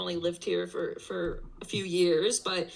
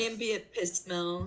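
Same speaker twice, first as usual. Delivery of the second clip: reading a chat comment; much slower than usual. Retold or imitated. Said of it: "said Maple".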